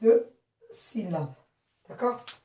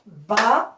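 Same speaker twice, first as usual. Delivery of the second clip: "Ba-lan-soire" in three widely spaced pieces; syllable by syllable; 4 dB louder than usual. Shown as a demonstration. Teacher repeating so pupils can count, syllable by syllable. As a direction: pause long after each part of "Ba-lan-soire". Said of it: "Je répète".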